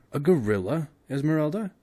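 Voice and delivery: old man voicing a horrible thought; fearful question. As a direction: ask it dreading the answer. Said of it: "as he voiced the horrible thought".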